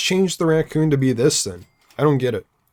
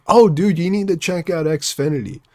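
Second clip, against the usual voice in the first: mock recommendation; 4 semitones higher than usual. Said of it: "would I be like".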